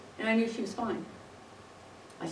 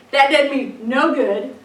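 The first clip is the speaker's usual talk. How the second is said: rueful laugh through the words, a bit slow; amused, self-mocking chuckle; 3 semitones higher, 9 dB louder, slower than usual. Real, not acted. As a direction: laugh it off at yourself. Laughs at her own failed prayer.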